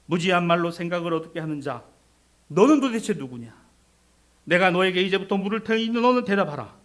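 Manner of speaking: loud, commanding challenge; God from the storm. Acted. God confronting Job out of the storm, commanding. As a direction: demand an answer with divine authority. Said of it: "폭풍 가운데 말씀하시기를".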